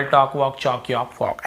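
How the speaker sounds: "टॉक" to "फॉक" softly, no ल before क; silent L. Shown as a demonstration. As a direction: run softly through "टॉक, वॉक, चॉक" without L. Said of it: "ऐसे पढ़ना". ("टॉक" से "फॉक" तक धीमे, बिना ल)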